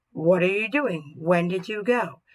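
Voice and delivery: slow questions lifting at the end; teacher modelling question intonation; rising question tune. Shown as a demonstration. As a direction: ask slowly, voice going up at the end. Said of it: "I raise my voice at the end of a question sentence".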